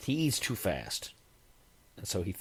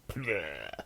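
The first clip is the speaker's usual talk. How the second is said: retching bleh; 4 semitones lower, 5 dB quieter than usual. Shown as a demonstration. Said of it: "specific sound".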